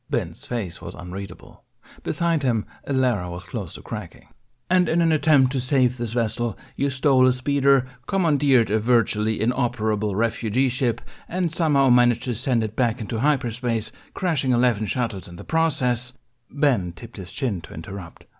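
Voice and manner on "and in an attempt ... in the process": a stern council master, formal and pressing; stern Mace Windu. Acted. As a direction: read out the charges like a cold judge. Mace lists offenses.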